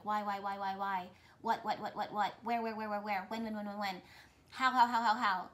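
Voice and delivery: mock pleading at the universe. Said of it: "being like".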